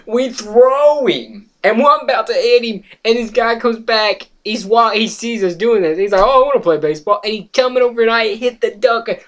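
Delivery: high, loud, giddy storytelling; excited telling. Real, not acted. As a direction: tell the funny part with pitch way up. Cracking up at the funny part.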